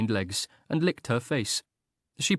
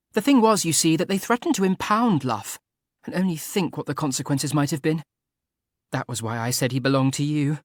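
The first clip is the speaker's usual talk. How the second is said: Frederica's voice; 6 semitones higher, 4 dB louder than usual. A narrator's reading. Frederica thanking Arthur eagerly.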